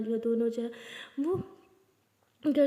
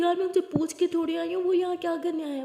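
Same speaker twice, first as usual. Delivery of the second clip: irritated snap; 5 semitones higher, 3 dB louder than usual. Acted. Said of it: "मुझ पे क्यों चिल्ला रही हो?".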